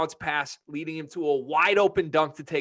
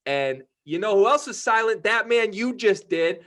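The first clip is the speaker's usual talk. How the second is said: raised, high-pitched emphatic tirade; heated rant; 9 semitones higher, 7 dB louder than usual. Real, not acted. Podcast host calling out Drew Timme for fake toughness, heated rant. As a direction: build into a loud, punchy call-out. Trash-talk rant at rival fans.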